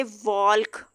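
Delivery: वॉल्क with the l said; l sounded wrongly. Shown as a demonstration. Teacher shows the wrong वॉल्क to avoid. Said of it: "यूं नहीं पढ़ सकते".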